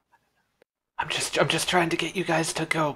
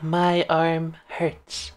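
slow coached line; much slower than usual. Shown as a demonstration. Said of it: "Go like".

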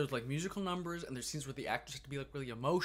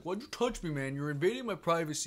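louder, higher imitation of an angry drunk; hammed-up drunk snapping at a teen employee; retold drunk guy yelling at the kid; mock angry drunk; 3 semitones higher, 4 dB louder than usual. Drunk snorer keeps arguing.

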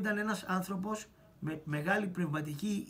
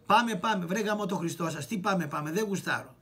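louder, pushy call to leave; mock impatient shout; 4 dB louder than usual. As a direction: hurry them out, cursing. (φωνή ανυπόμονη, δυνατή)

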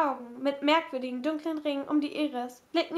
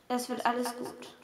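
low-key, softer and private; soft reassurance; 3 semitones lower, 5 dB quieter than usual. A narrator's reading. Rob privately comforts nervous Kate, softly reassuring. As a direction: reassure gently, just for one person. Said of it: "Seine Worte waren nur für sie bestimmt".

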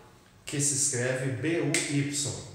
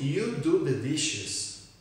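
slow model sentence; much slower than usual. Shown as a demonstration. Teacher models the present slowly.

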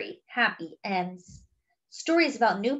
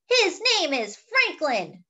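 mild shout; 5 semitones higher than usual. Acted. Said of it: "shouts Luna".

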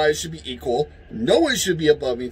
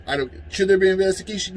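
ordinary talk, nothing marked

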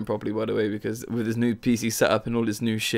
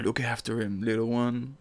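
cool Yakuza voice; 6 dB quieter than usual. Retold or imitated. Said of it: "in a cool Japanese Yakuza voice".

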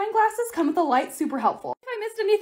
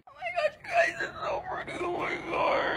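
high, cracking laugh-cry of delight; tearful squeal; 13 semitones higher, 9 dB quieter than usual. Real, not acted. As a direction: gush over it near tears. Overwhelmed by finished display.

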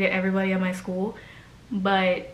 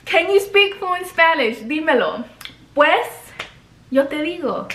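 put-on valley girl; 3 semitones higher than usual. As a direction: play a ditzy gringa trying Spanish. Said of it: "Why am I talking like a white girl".

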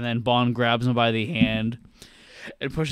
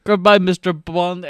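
villain goodbye; 6 semitones higher, 8 dB louder than usual. Retold or imitated. Villain voiced saying goodbye.

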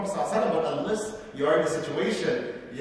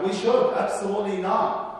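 emphatic; 4 semitones higher, 3 dB louder than usual. Acted. Rhetorical answer in sermon.

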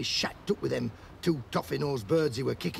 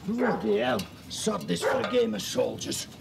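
real disgust, blurted out loud; loud exclamation; 4 dB louder than usual. Real, not acted. Reacting to a mess.

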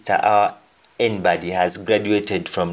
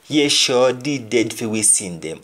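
quoted speaker. Acted. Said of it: "somebody will say".

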